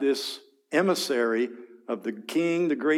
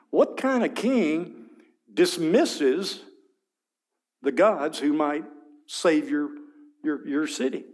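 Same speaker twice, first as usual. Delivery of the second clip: higher taunting challenge; 3 semitones higher, slower than usual. Acted. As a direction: taunt the listeners on the walls. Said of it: "here's this taunting arrogance".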